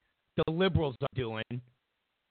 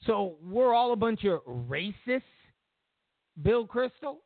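mock taunting; 3 semitones higher than usual. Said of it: "and go".

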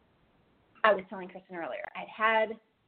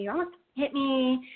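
mock scream; 5 semitones higher, slower than usual. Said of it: "she's still screaming at me".

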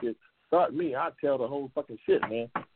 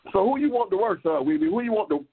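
loud call; 6 semitones higher, 6 dB louder than usual. Real, not acted. Host shouting question to guest.

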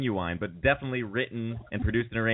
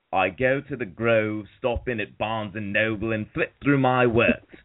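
put-on British accent. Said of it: "do a British accent".

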